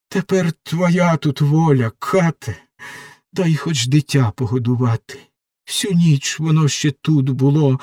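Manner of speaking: a lightly voiced young prisoner begging for mercy; pleading doomed girl. Margarita in her cell begs the executioner, desperate pleading. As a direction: plead with the executioner for your life, raw and frightened.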